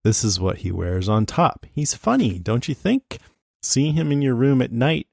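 lightly spooky storybook reading; hushed creepy legend telling. Pretend. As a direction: read it like a creepy children's rhyme. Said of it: "I'm gonna read from a little book".

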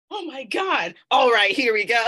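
hammed-up oh my God; bracing herself. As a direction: brace for a flood of words.

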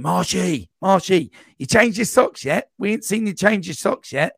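loud, high-pitched Somerset runner calling out; worked-up Somerset impression, voice pitched right up; animated Somerset accent. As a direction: imitate an excited mate with a Somerset accent. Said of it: "in his Somerset accent, and it was real animated".

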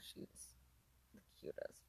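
soft, whispered doting; tender whisper. Real, not acted. Doting on her friend's baby in a tender whisper.

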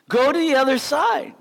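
plain, direct command to go; firm command. Shown as a demonstration. Preacher showing Jesus's order to the crowd, firm and direct. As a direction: give it straight as an order. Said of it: "It was command".

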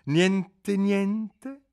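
king insisting, incredulous; insistent king. A narrator's reading. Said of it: "insistette il re".

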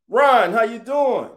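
high, loud and slow shout-out; hype greeting. Real, not acted. Streamer greeting Ron in the chat, hyped and drawn out. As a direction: stretch out the welcome.

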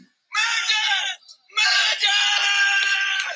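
shouted cry for help; desperate shout for help; calling murder. Acted. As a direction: call out into the dark street.

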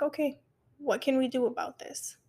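calm, practical question to yourself; retold calm. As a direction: settle down and quietly reason it out. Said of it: "I calmed down".

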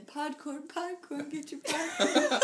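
sing-song stadium vendor call; street vendor calling. Pretend. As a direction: hawk it like a ballpark vendor. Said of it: "that's more like a baseball stadium".

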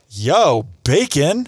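lightly voiced greedy bro; a hint of a bro grabbing bacon; greedy guest quote. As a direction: pitch up on bacon, dude-ish call. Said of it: "been like".

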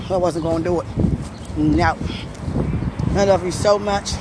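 talking while chewing gum; words round a piece of gum. Real, not acted. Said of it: "Got this gum in my mouth".

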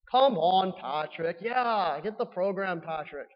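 lightly mocking Irish leprechaun; bad Irish accent. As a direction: chide him in a put-on Irish accent. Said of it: "my terrible Irish accent".

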